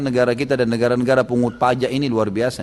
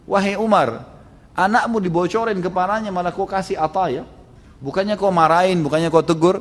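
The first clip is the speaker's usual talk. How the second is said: scolding wife; 5 semitones higher than usual. Acted.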